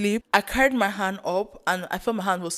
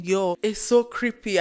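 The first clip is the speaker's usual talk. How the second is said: normal talking voice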